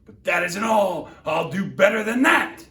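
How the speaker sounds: high, loud domineering boast; thundering royal voice. Acted. Yertle thundering at Mac to stay in his place. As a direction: lord it over the little turtle. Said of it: "his royal voice thundered".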